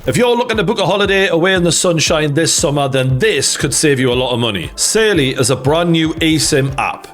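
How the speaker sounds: upbeat sponsor read, clear and brisk. Acted. Host reading an ad to viewers, upbeat ad read. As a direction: sell the app like a host ad.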